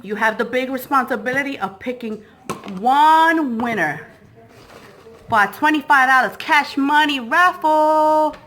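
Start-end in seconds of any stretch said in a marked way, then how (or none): 2.8-4.1 one winner drawn out slowly and firmly; heavy stress on one. Acted. Slow emphatic announcement.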